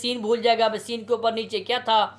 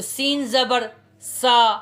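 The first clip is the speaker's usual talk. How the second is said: slow letter spelling; much slower than usual. Shown as a demonstration. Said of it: "सीन के ऊपर जो को हरकत है".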